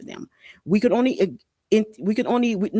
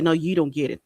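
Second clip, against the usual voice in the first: mock defiance; 2 semitones lower than usual. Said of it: "y'all don't be like".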